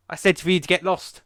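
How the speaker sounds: loud hammed-up telling-off; mock angry sheriff. Retelling the sheriff ordering Rambo off, a mock loud yell. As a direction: bark it like an annoyed sheriff. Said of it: "the sheriff goes".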